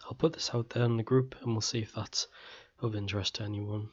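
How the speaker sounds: throat going, voice losing strength. Real, not acted. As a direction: talk with a tired, failing voice. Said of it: "my throat's going a bit".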